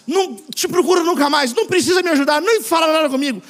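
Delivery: mock offended outburst; imitated one-sided quarrel. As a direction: act out a sulky texter breaking it off. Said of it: "aí ele brigou sozinho".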